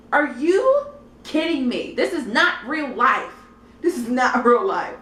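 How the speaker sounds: worked-up, laughing indignation; mock outrage. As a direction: protest it, incredulous and half laughing. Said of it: "I was so mad".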